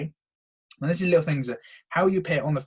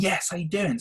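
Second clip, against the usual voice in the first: higher, perky hello; upbeat greeting; 6 semitones higher than usual. Shown as a demonstration. Coach showing how you should be, upbeat. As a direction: greet with lively energy. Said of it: "you're gonna be like".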